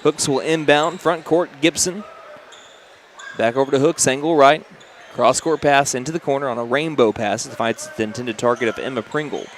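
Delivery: brisk courtside game call; play-by-play. Real, not acted. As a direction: call the action as it happens. Live basketball play-by-play.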